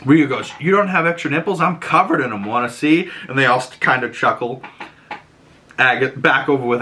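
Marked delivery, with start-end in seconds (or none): 0.6-3.1 high, quick playful taunt; cheeky tease. Retold or imitated. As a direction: tease them, fast and sly. Rio's cheeky joke.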